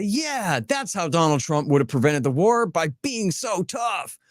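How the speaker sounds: slow, drawn-out sarcasm on being so tough; mockingly agree, stretching the end; sarcastic agreement. Mocking a pro-Trump take to his co-host, slow sarcasm. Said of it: "Or I could say".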